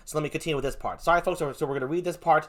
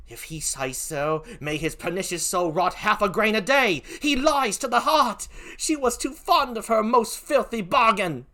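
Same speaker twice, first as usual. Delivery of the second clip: put-on British-accented curse, building higher; poor British accent; 5 semitones higher than usual. Emilia curses her lying husband, indignant British accent. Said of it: "forgive my poor British accent".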